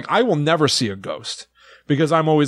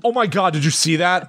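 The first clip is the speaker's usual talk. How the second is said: half-hearted, slightly higher pretend shock; fearless mock alarm; 5 semitones higher than usual. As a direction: fake being freaked out, without any fear. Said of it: "no fear in your voice".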